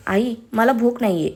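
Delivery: slow, even, understated calm. Acted. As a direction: decline gently and slowly. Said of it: "दीक्षा शांतपणे म्हणाली".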